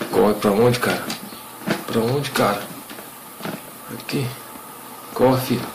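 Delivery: frantic, lost where to run; panicked. Real, not acted. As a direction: pitch rising, panicked questions. Panicked while chased.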